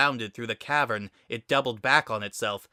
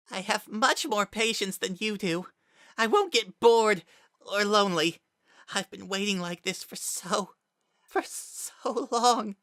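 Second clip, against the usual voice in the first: Kara's patient menace; 11 semitones higher than usual. Acted. Kara telling Frisk he can wait forever, high and taunting. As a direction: lord it over him from on high.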